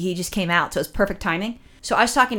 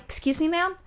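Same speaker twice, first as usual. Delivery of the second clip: surprised; 8 semitones higher, 6 dB quieter than usual. Retold or imitated. Confused reply to old lady.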